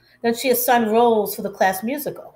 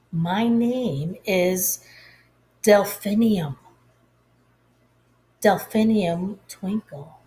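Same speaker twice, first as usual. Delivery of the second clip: gentle reveal. Acted. Teacher shares her flower name.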